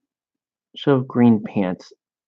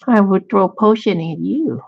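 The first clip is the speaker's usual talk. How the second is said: mock Asian accent; 7 semitones higher, 3 dB louder than usual. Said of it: "why he's Asian all of a sudden".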